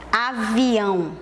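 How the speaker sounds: "avião" slowly, drawn out in its syllables; teacher sounding out "avião" in syllables. Shown as a demonstration. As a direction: stretch out each syllable of "avião". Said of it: "Eu abro a boca pra falar".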